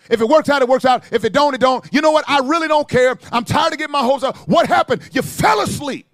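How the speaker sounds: loud, driving sermon delivery; preaching at full force. Acted. Preacher driving the point home to church, loud. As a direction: preach it hard to the congregation.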